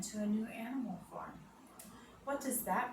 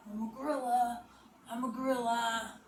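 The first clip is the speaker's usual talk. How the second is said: playful gorilla; 3 semitones higher, 4 dB louder than usual. Pretend. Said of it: "give our best animal voices".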